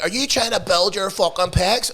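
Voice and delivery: mock know-it-all trainer. Host imitating a new trainer quizzing gym-goers, mock know-it-all. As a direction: quiz them as a novice trainer. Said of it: "it's like".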